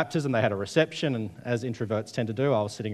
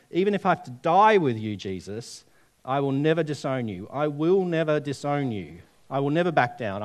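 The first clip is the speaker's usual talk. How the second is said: hero talk. Retold or imitated. Preacher acting out Peter's oath, boastful. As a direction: swear it like a would-be hero. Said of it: "That's hero talk".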